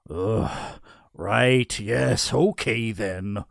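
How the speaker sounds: mildly flustered giving in; reluctant assent. A narrator's reading. Nicholas is nudged to do his job, mildly reluctant.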